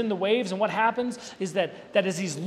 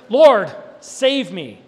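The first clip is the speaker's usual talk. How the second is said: terrified cry; 3 semitones higher, 11 dB louder, much slower than usual. Retold or imitated. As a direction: cry out in terror, drawn out. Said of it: "Fear, terror".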